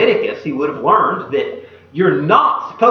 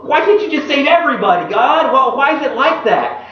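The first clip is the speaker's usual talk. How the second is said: frustrated protest; 6 semitones higher than usual. Retold or imitated. Believers questioning God over who is saved, frustrated. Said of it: "we become frustrated and angry with God".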